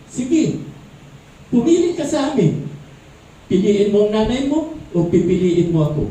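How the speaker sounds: wife's ultimatum, lightly hammed up; mock haughty wife. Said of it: "nagmalaki pa yung babae".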